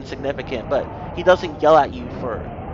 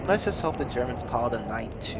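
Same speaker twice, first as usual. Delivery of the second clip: uneasy; 3 semitones lower, 6 dB quieter than usual. Acted. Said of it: "you reply uneasily".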